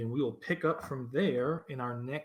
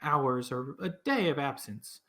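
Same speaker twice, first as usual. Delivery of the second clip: put-on higher elderly woman explaining; weary old townswoman; tired old voice; 6 semitones higher than usual. Olivessa explains the election.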